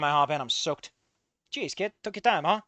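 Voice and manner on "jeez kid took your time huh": nasal, teasing cab driver; mock him in a nasally voice. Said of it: "that familiar nasally voice mocks".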